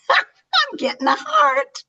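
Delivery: breathless whispered laugh, very high. Real, not acted. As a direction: giggle it out in a whisper. Touched by a heart reaction.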